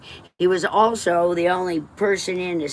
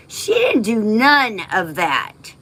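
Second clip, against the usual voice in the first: tearful; 5 semitones higher, slower than usual. Real, not acted. Bitter after mocking her mother.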